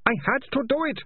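high, plaintive wail of a guilty man; moaning. A narrator's reading. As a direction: moan it pitched right up. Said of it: "Ratcatcher two moaned".

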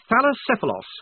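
put-on a touch sheepish, high young officer; sheepishly offering the horse's grand name. A narrator's reading. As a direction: mumble the name a little embarrassed. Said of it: "said Blouse sheepishly".

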